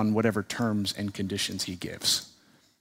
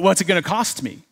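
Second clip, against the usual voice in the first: higher, mock-stunned question; acted flabbergasted; 6 semitones higher, 4 dB louder than usual. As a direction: play a shop owner doubting his luck. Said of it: "The shop owner is just flabbergasted".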